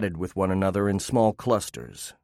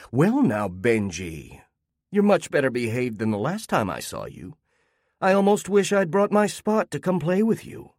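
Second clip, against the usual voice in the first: Lorna's voice; 5 semitones higher than usual. Acted. Neighbor Lorna voiced in story.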